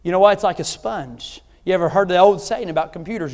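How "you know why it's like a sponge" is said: normal talking voice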